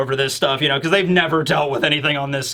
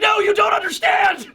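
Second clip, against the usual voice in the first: desperate shout. Pretend. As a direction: plead your innocence frantically. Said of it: "you're like".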